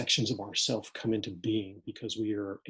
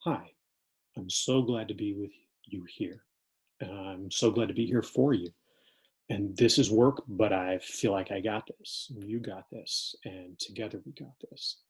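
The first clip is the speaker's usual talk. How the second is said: grounded student. Acted. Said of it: "Scenario seven".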